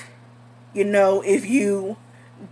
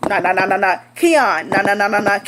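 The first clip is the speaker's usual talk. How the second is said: spoken knocks. Retold or imitated. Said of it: "they're knocking on the door".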